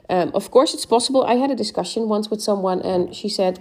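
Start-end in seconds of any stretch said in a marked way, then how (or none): none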